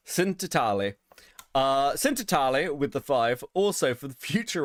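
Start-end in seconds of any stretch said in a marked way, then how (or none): 0.1-0.9 hammed-up Italian accent on the name. Shown as a demonstration. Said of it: "say it in a really Italian accent". 1.9-2.7 hammed-up Italian accent on the name. Shown as a demonstration. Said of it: "say it in a really Italian accent".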